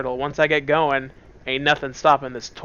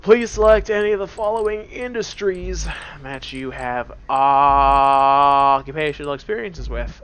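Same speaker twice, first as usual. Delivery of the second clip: slow, stiff machine voice reading the form; robotic questionnaire voice; 5 dB louder, slower than usual. Acted. Game voice reading a question to the player, stiff and robotic. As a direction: intone it like a cold computer.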